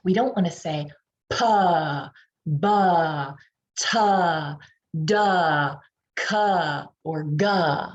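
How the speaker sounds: pa, ba, ta, da, ka, ga 에 모음 "아" 를 붙여 틀리게; 자음 뒤에 "a" 를 덧붙인 잘못된 발음 예시; wrong added vowel. Shown as a demonstration. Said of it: "not add additional sounds".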